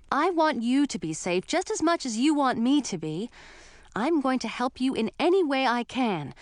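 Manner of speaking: put-on impassioned young heroine standing her ground; indignant heroine. Heroine arguing with her betrothed about marriage, indignant insistence. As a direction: argue back, insistent and indignant.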